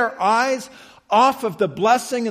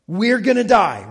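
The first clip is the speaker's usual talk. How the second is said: mock panic. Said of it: "they're just freaking out".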